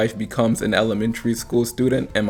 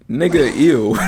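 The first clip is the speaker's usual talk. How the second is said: disgusted; 4 semitones higher, 4 dB louder, slower than usual. Real, not acted. Disgusted reaction to reply.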